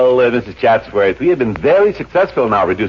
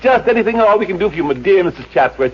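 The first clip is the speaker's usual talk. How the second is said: fawning; 7 semitones higher than usual. Acted. Manager fawns over rich client.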